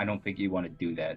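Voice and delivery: hushed, quiet voice, said up close. Playing a character grabbing an old man's wrist, warning him: said quietly. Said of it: "quietly saying".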